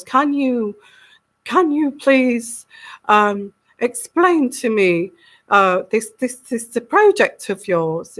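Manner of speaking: lightly voiced Queen, slowing on the polite requests; a hesitant, halting attempt at a royal voice. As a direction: politely ask as the Queen, not quite managing the voice. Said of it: "I can't do the Queen's voice".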